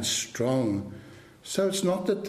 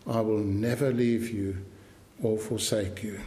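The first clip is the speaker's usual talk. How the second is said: tender promise; 3 semitones lower than usual. Shown as a demonstration. Preacher repeating the Lord's promise tenderly to struggling believers. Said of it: "here's his promise to you".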